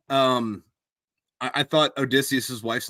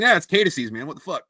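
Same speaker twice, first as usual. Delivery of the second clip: imitating everybody else; 6 semitones higher, 6 dB louder than usual. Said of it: "everybody else is like".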